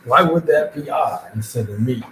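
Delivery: lightly mocked indignant question; upset daughter's objection. Parent voicing what would upset the daughter, mock indignant. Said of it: "would upset my daughter".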